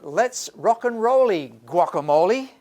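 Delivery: playful rhyming cheer. Shown as a demonstration. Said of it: "It's a little rhyming idiom".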